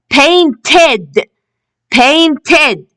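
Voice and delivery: "painted" in two careful syllables, ending ed; teacher's model "painted", last syllable sounded ed. Shown as a demonstration. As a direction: say "painted" with a full final ed. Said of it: "We can hear the ed sound".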